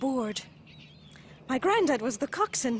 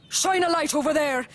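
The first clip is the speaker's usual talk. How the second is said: mock shout; 2 semitones higher, 4 dB louder than usual. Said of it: "shouted my granddad".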